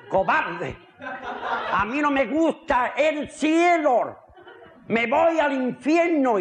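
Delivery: mildly peeved grumble; mock annoyed. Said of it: "dice este mosqueado". (un poco mosqueado, en broma)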